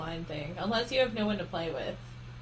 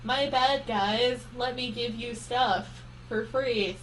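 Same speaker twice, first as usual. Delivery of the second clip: mock apology; 2 semitones higher, slower than usual. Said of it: "Ubisoft finally said".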